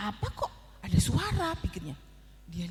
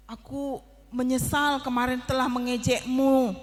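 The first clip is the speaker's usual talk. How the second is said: stammering; 4 dB louder than usual. Acted. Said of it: "dengan terbata-bata bilang begini".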